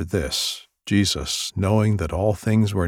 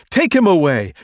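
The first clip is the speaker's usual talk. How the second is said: much higher, louder shout; loud mob shout; crowd shouting; 10 semitones higher, 8 dB louder than usual. Acted. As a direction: demand it as the mob. Crowd crying out.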